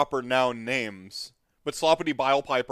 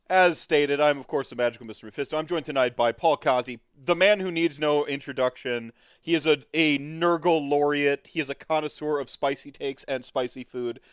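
lightly hammed-up announcer intro, a bit louder; show host introduction; 2 semitones higher, 4 dB louder than usual.

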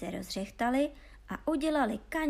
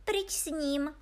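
princess dismissing a suitor, higher voice; odmítavá princezna; 6 semitones higher, slower than usual. Acted. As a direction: wave him off like a haughty princess. (vyšším hlasem odmítavá princezna)

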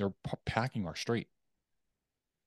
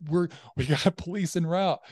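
lightly voiced operator, higher and louder; emergency operator; 9 semitones higher, 5 dB louder than usual. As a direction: raise it like an operator over a speakerphone. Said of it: "nine one one operator on speakerphone".

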